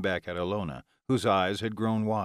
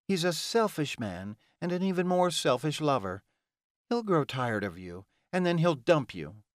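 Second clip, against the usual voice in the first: mildly snarled, higher-pitched warning; snarling; 4 semitones higher than usual. Acted. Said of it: "Ilona snarled at her".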